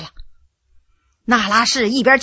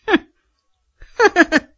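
scornful huffs, pitched up at first; cold sneering laugh; 6 semitones higher, faster than usual. A narrator's reading. Empress mocking the emperor with cold derisive huffs. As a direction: sneer out each huff bitterly. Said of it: "冷笑着说".

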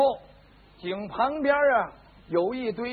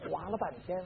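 usual speaking voice

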